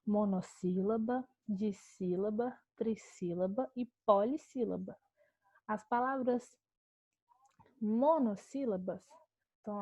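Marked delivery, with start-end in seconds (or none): 0.0-5.0 slow, careful listing of terms; teacher dictating terms. Shown as a demonstration. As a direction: lay out each term slowly for students. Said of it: "quais são as classificações que eu tenho?".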